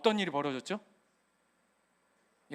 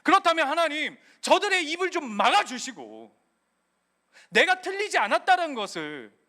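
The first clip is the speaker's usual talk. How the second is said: complaint and lament; 4 semitones higher, 3 dB louder than usual. Retold or imitated. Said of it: "하는 원망과 한탄과".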